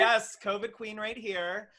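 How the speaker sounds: high, loud, drawn-out mock boast; playful proclamation. Guest plays along as covid queen, playful loud boast. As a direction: claim the joke title with gusto.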